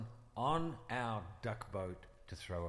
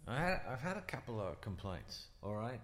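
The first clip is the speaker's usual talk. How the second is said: put-on Brooklyn accent. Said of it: "Is your Brooklyn accent for real?".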